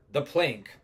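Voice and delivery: emphatic captain, falling at the end; captain's blunt answer. Acted. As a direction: state it firmly as the captain. Captain answers Scott's question.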